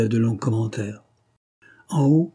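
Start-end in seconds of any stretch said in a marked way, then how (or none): 1.9-2.3 high and loud, booming. A narrator's reading. Rougon booming over the agitated listeners. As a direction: seize the room with a big voice. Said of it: "de sa voix la plus forte".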